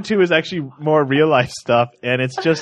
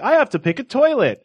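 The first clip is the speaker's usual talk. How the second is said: mock bewilderment; 11 semitones higher than usual. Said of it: "being like".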